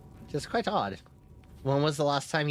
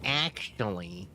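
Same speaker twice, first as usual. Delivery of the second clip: Reddit mod voice; 4 semitones lower, 3 dB quieter, slower than usual. Pretend. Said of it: "a Reddit mod voice".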